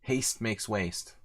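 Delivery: drawn out preachy saying; slow, mock-wise lecture; slow sarcastic proverb. Mocking opponent over clock.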